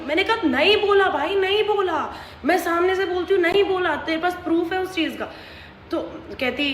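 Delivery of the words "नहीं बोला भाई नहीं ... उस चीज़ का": higher, insistent denial; heated denial retold. Denying to the friend at the party, heated insistence. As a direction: deny it hard, over and over.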